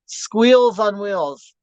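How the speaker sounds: very slow, savoured pickup line; cheesy pickup line. Retold or imitated. Host retelling a young man's pickup line, very slow and cheesy. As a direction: stretch it out like a corny come-on. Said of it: "Did you wanna hear a pickup line?".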